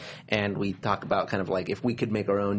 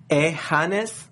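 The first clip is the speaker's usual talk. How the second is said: higher-pitched put-on Hispanic accent; 4 semitones higher than usual. Shown as a demonstration. Reading another viewer's name on request, Hispanic accent. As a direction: lift the name up with Hispanic vowels. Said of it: "say their name in a Hispanic accent".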